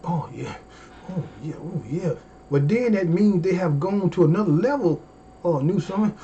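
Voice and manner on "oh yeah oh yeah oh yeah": savoring moan. Retold or imitated. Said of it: "when they go to that stage and that mode".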